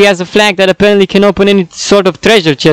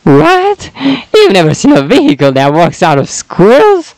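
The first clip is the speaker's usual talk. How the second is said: character voice. Acted. Retake of character line.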